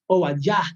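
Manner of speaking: Obadiah in Hebrew, o-ba-DYA, rising; Hebrew pronunciation. Shown as a demonstration. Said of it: "o Abdías". (Obadiah pronunciado en hebreo)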